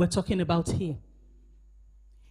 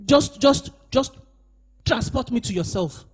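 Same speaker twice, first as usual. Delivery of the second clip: mock lazy request. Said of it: "never saw where Peter said".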